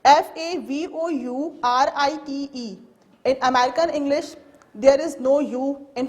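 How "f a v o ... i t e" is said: slow, letter by letter spelling; spelling aloud for students. Shown as a demonstration. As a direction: spell C O L O U R slowly, each letter apart.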